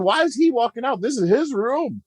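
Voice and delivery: high-pitched baffled protest; retold bewilderment. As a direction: recount your disbelief, amused by it. Retelling his baffled reaction.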